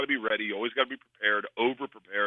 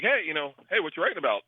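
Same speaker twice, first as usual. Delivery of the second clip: casual opener in a slightly higher pitch; 4 semitones higher than usual. Retold or imitated. Man chatting up a girl writing in a coffee shop, casual. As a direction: toss it out casually, lightly acted. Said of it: "casually was like".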